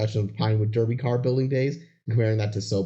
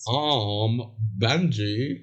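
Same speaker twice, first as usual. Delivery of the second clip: put-on old-timey voice; much slower than usual. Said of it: "these old-timey voices".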